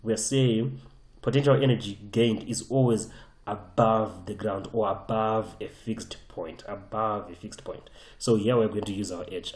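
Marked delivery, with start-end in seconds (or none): 1.2-7.9 measured insistence, "above" stretched each time; emphatic. Real, not acted. Teacher hammering home the rule for students, emphatic. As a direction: lean on "above" at every repeat. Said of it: "I hope I've emphasized that enough".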